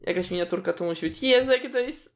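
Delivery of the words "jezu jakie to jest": gushing delight. Real, not acted. Gushing over cute baby.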